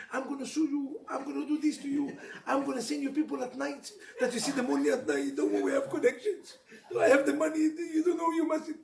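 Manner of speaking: hammed-up blustering threats, half laughing; mock threats. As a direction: play the hothead threatening the cop for fun. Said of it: "instead of screaming at him".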